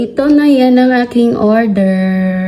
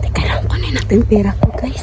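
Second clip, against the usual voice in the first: whispering; faster than usual. Real, not acted. Hurrying to get money.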